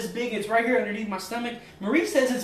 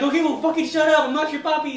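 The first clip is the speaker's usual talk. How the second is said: louder, higher fed-up cop; annoyed cop; 6 semitones higher, 6 dB louder than usual. Retold or imitated. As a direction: snap back like a cop. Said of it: "He's like".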